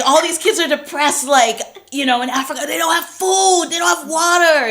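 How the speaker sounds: high, loud African accent impression; exclaiming in an African accent. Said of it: "You still sound Asian".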